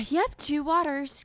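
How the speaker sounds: mock annoyed repeat of the order; hammed-up rude waitress. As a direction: sigh it out like a put-upon waitress. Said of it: "I'm hamming it up right now".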